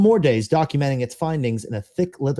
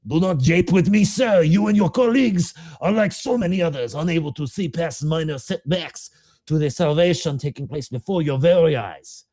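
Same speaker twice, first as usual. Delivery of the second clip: put-on higher, agitated doctor with a faint accent; SCP-049 rebuking Doctor Ham, agitated and higher; 5 semitones higher than usual. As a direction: snap back at the doctor, offended. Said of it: "very agitatedly".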